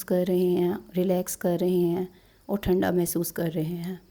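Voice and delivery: unhurried guided-relaxation voice with pauses; guided meditation. Acted. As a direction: guide listeners through relaxing, phrase by phrase.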